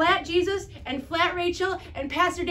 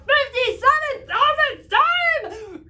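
mock angry; 9 semitones higher, 7 dB louder, slower than usual. Showing anger at little brother.

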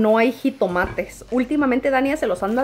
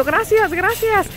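higher, slow, uneasy thank-you; awkward slow thanks; 9 semitones higher, much slower than usual. Retold or imitated. Thanking the flattering strangers outside, slow and awkward. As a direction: drag out a polite but awkward thanks. Her reply, drawn out.

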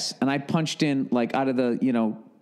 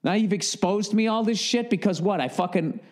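retold flipping out; 5 semitones higher than usual. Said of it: "but I was flipping out".

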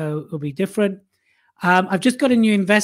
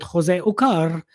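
names rolled in a bad South American accent, Spanish-style j; a hammed-up South American accent on the name; mock South American accent; much slower than usual. Host introducing his co-host Jose, in a mock South American accent. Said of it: "It's meant to be South American, but that was really not South American".

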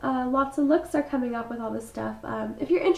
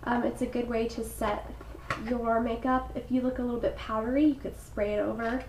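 stuffy froggy voice. Real, not acted. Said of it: "I sound so sick and horrible".

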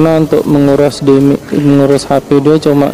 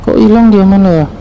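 puzzled exclaim; 4 semitones higher, faster than usual. Real, not acted. Boss vanishes, player searches.

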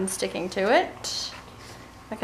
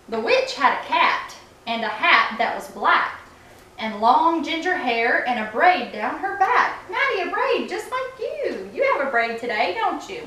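put-on storybook read-aloud voice for kids; reading to children. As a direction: read it like bedtime story time. Mom reads picture book aloud.

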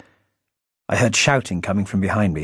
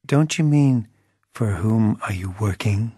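mock correction. A narrator's reading. Narrator mocks grammar in voice.

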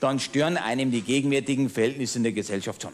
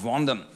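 Wandern dropped low and leaned on; stress on Wandern; 2 semitones lower than usual. Shown as a demonstration. Cabaret punchline with emphasis on Wandern, low stress. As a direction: give Wandern the punchline weight, low and drawn out. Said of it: "mit Betonung auf".

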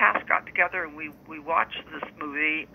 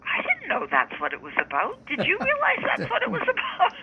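surprised. Retold or imitated. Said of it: "I remember saying".

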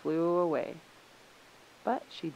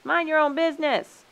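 high, loud rebuff; raised voice, falling at the end; indignant shout; 10 semitones higher, 8 dB louder than usual. A narrator's reading. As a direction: shout them off. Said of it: "shouted the animals".

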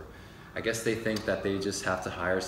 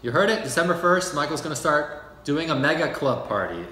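excited announcement; 5 semitones higher, 4 dB louder than usual. Acted. Announcing the big news.

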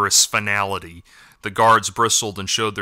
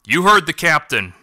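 barked; 6 semitones higher than usual. A narrator's reading. Elder ordering fighters to position, barking. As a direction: snap the order at the guards. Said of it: "barked Patram".

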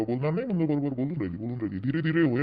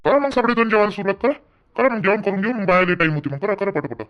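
loud urging; 6 semitones higher, 7 dB louder than usual. Acted. Loudly urging guests to eat.

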